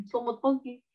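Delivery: "Selamat pagi" slurred as "somut pogi", mouth barely opened; lazy, closed-mouth mumble; mumbling. Shown as a demonstration. Teacher repeats the mumbled greeting, mouth not opening. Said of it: "Mulut nggak kebuka".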